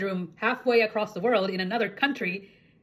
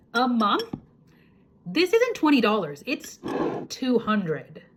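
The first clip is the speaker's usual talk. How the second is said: shocked daughter; 4 semitones higher, 4 dB louder, slower than usual. Retold or imitated.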